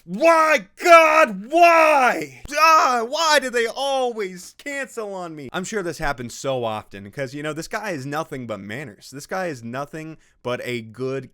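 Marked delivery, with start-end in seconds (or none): 0.0-5.5 high, loud hammed-up wail to the heavens; over-the-top falsetto lament, much higher and louder; mock wailing nice guy. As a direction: shriek it like a melodramatic crybaby. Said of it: "Already starting the waterworks".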